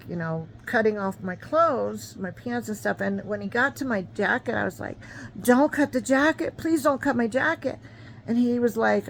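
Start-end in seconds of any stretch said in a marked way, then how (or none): 5.4-7.8 high, loud desperate begging; pleading. Retold or imitated. Injured girl begging the EMT to spare her jacket, high pleading. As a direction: beg the medic to spare the jacket.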